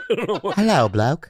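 better British bloke voice; cheeky British greeting; British accent. Pretend. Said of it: "Oh, that's better".

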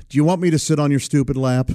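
put-on quick, rude child's offer with amusement; mock-brusque niece, close to laughing; imitated rude offer. Niece offering uncle comfort, imitated rude manner. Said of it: "she did it in such a rude way".

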